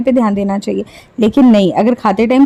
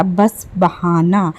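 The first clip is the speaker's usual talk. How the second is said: sarcastic aside; 6 semitones lower, 4 dB quieter, much slower than usual. Acted. Sarcastic jab at contestant.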